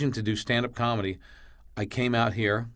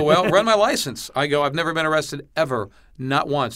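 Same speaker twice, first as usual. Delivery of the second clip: sharp and loud, retelling his anger at the cop; irritated retort to the questioning cop, loud; pissed off; 3 semitones higher, 4 dB louder than usual. Retold or imitated. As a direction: snap it back, indignant and raised. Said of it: "you seem a little pissed off".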